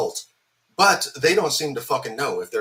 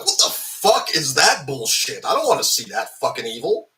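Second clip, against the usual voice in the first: retold outrage; 2 semitones higher than usual. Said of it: "and I'm like".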